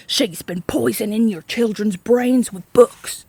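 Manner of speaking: slow, weighty public accusation; declaring. A narrator's reading. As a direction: announce it to the room like a verdict. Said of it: "Trout declared".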